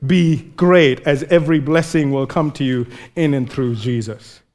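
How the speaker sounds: calm, sincere vow; God's tender promise. Retold or imitated. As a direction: reassure a frightened child. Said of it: "It is always like this".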